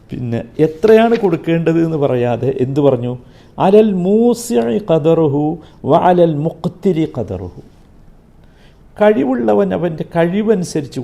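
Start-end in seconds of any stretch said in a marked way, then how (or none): 3.6-7.6 slow, drawn-out Quranic chanting; Quran recitation. Acted. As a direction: intone the verse slowly like tilawa. Quotes Quran verse in lesson. (പതുക്കെ ഖുർആൻ പാരായണം)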